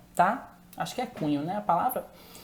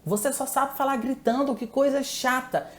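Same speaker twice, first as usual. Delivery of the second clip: higher, livelier take with a rising lilt; raised-pitch tone; 6 semitones higher than usual. Shown as a demonstration. Teacher showing the same criticism in a higher, livelier tone. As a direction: lift the pitch, more animated, same words. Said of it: "Não mudaria o cunho".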